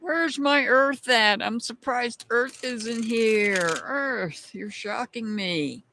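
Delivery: playful put-on Southern accent. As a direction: lay on a Southern accent, falling at phrase ends. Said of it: "do that Southern accent for you".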